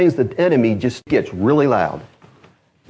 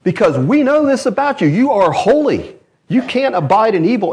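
higher, louder pleading; loud plea; 8 semitones higher, 3 dB louder than usual. Acted. Saints pleading with the Lord, loud plea. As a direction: press the case to God. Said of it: "they are crying out to the Lord".

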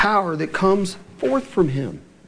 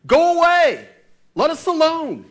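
high, loud shouted cry; demon shout; 11 semitones higher, 5 dB louder than usual. Retold or imitated. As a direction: hurl it out like a possessed man. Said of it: "he shouted".

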